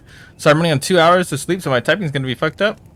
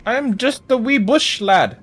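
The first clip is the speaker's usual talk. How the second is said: silly bush voice; 7 semitones higher, slower than usual. Pretend. Playing a bush in game.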